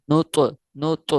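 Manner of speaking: نط نط very slow, the ط echoing; qalqala drill. Shown as a demonstration. Teacher drilling students: نط repeated slowly with qalqala. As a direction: repeat نط slowly, bouncing the ط each time. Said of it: "اس طرح پڑھیں گے".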